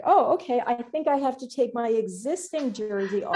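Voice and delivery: mock-innocent "oh, okay"; acted naive realization. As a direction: play a rider innocently catching on. Acting out Mika's naive reaction.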